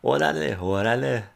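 imitating a Chicano rapper's accent, slow and drawn out; a loose Chicano rap accent in the style of a rapper, unhurried. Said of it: "I'm trying to do the S P M accent".

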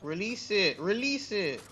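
urgent shout. Real, not acted. Urging teammate in fight.

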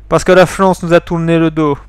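lightly put-on Polish accent. Accused soldier explains himself, light Polish accent. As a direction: answer with a hint of a Slavic accent. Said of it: "il faut que je prenne un accent polonais".

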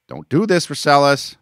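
high frantic cry; panicked plea. Acted. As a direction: beg in terror.

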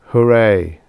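hollow hooray, falling away; empty cheer. A narrator's reading. Father reacts to his triplets' birth, emptily. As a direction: cheer with nothing behind it. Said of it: "said Whaling emptily".

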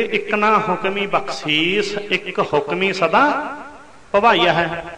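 slow, measured recital of a holy verse; slow devotional reading of the verse; scripture recitation. Acted. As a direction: lay each word out slowly, reverently. Preacher recites a scripture line.

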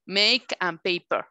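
slow "Make and paper" with clear "ey" vowels; teacher's slow model of "Make and paper"; long A sound. Shown as a demonstration. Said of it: "las palabras con sonido A son".

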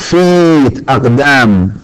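feet drawn out with a long ee; slow teacher model of feet; model pronunciation. Shown as a demonstration. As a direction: stretch the vowel in feet. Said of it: "Foot،".

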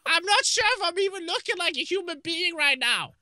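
mouth propped open. Real, not acted. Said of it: "I look like a monster from Amnesia".

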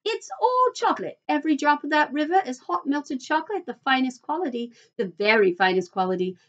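high-pitched, lively boasting; excited showman. Acted. Mister Wonka shows visitors his chocolate river, excited and proud. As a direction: show off your marvel with delight.

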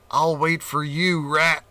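cat calling into hole. Acted. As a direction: call down the hole. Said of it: "he called".

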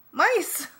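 high, loud shriek of alarm; sudden squealed shout; alarmed yell. A narrator's reading. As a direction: yell a high-pitched warning. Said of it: "Tracy yelled".

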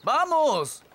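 coaxing call. Acted. Calling fish like a dog.

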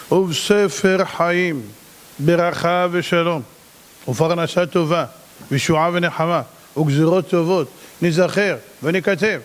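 slow chanted prayer; lightly chanted liturgy; prayer recitation. Acted. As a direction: recite it slowly, word by word.

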